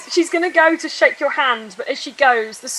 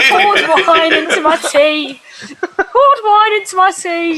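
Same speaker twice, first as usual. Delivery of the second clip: slow, giggly tipsy drawl; 2 semitones higher than usual. Acted. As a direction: sound a bit drunk on wine. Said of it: "Your voice is going weird".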